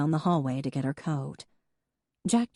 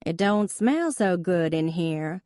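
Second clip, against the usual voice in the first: put-on slow Southern good old boy accent, teasing; 3 semitones higher than usual. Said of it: "using her good old boy accent".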